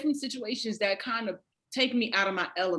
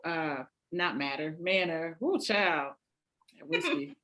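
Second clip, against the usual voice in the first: ordinary talk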